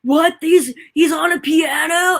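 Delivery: high, slow, astonished cry; amazed shout. Retold or imitated. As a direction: shout in disbelief at the video. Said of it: "They're like".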